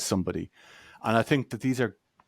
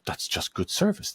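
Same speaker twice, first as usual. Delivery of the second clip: mock contentment; 9 semitones higher than usual. Mocking a satisfied user.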